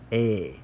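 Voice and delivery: slow, drawn "A" like in day; long A. Shown as a demonstration. Teacher demonstrating eta as a long A. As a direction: hold the "A" as long A. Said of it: "more like a long A sound".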